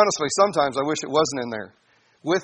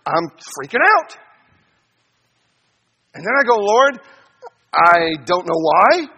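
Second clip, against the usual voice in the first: anxious prayer to God; 3 semitones higher, 4 dB louder than usual. Retold or imitated. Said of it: "I say it to him".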